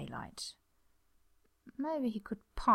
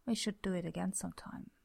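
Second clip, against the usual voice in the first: quiet; 2 semitones lower, 6 dB quieter, faster than usual. Acted. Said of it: "he said quietly".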